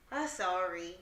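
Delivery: low, soft imitation of a grudging sorry; half-hearted apology. Mom imitating daughter told to apologize, half-hearted. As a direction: mumble a child's token apology. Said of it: "say it like you mean it".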